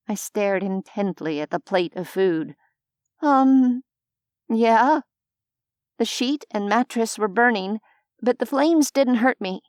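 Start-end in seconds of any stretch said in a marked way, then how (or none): 3.2-9.6 put-on higher, hesitant young woman lying; fumbling an excuse, a touch louder; nervous lie. A narrator's reading. Heroine lies again.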